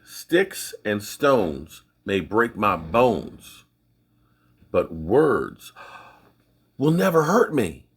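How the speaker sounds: put-on old schoolyard rhyme, drawn out slowly; slow recited saying. Recalling childhood, reciting the old rhyme slowly. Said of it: "we used to say".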